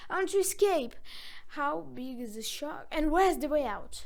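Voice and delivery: loud, high urgent pleading; desperate puppet. A narrator's reading. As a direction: beg to get out of the shark.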